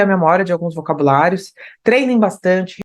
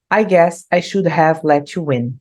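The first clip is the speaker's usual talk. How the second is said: slow, careful lyric line; slow model reading; 3 semitones lower, slower than usual. Shown as a demonstration. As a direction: read it out slowly for learners. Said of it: "teacher rereads lyrics".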